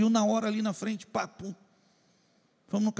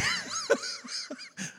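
high laugh; 9 dB quieter than usual. Real, not acted. Laughs after the complaint.

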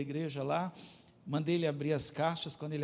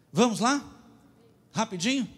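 rallying call; 6 semitones higher, 6 dB louder than usual. Real, not acted. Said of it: "prega com energia".

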